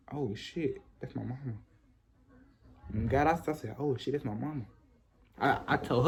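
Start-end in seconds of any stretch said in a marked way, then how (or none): 0.1-1.6 low, hushed oh-no whisper-talk; hushed panic. Retold or imitated. Caught by his mom, hushed panic. 3.8-4.7 hushed panic. Retold or imitated. Caught by his mom, hushed panic.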